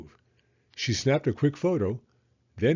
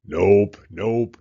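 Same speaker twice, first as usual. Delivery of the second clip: blunt nope; 9 dB louder than usual. Acted. Beaver correcting Hen.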